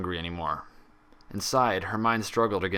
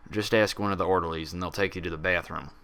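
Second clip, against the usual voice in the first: stiff and formal. Acted. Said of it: "Her voice was stiff and formal".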